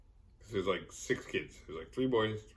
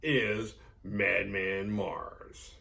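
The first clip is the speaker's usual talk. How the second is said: ominous reveal; 3 semitones lower, much slower than usual. Retold or imitated. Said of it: "Max is like".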